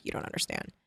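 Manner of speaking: hushed confiding whisper; breathless whispered confession. Retold or imitated. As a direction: whisper it like a secret. Randy confides quietly.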